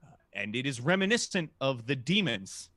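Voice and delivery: slow, drawn-out suspenseful narration; ominous, measured storytelling; game master's scene setting. A narrator's reading. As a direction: draw out each phrase with pauses. Game master sets the closing scene.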